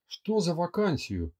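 surprised mutter. Acted. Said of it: "удивлённо пробормотала Лера".

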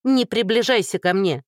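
woman screaming at a man reaching to hug her; yelling. A narrator's reading. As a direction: shout her away, keep him off. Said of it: "снова заорала Динка".

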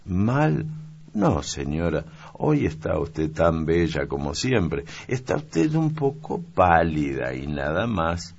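a caring little maid fussing over her mistress; young maid. Acted. (criada niña, voz más aguda y solícita)

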